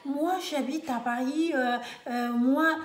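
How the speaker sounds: mock white Parisian French accent with drawn-out euhs; imitated white French accent. African woman mocking newcomers who say they live in Paris, imitated white French accent. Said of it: "On veut imiter l'accent des Blancs".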